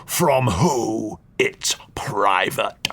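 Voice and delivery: hushed, secretive whisper; guard the secret in a whisper; whispered old duke. Acted. Suspicious duke whispers to the stranger about his private collection.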